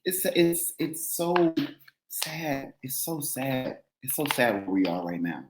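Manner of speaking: trying not to cry over the state of things; fighting back tears. Real, not acted. To the co-host, about the country, near tears. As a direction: voice breaking, holding back tears. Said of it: "I'm trying not to cry".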